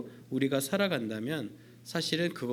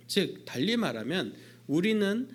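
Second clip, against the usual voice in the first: ordinary delivery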